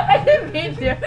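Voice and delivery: high laughing protest; laughing denial. Real, not acted.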